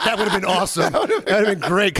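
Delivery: said through real laughter; amused by a friend's joke, laughing through it. Real, not acted. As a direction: laugh while getting the words out.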